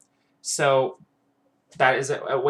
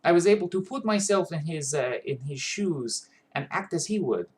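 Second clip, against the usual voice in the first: Ram; 2 semitones higher than usual. Shown as a demonstration. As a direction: think in a light Russian accent. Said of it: "if I was talking like this".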